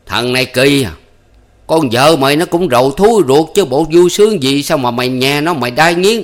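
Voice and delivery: giọng rầy la; scolding. A narrator's reading. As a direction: chide him firmly. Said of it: "rầy rà".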